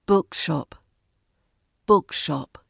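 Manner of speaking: BOOK stressed, shop lighter; weight on "book" in bookshop; first-word stress. Shown as a demonstration. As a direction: bookshop falling away after a strong first word. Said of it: "R P stress on the first word".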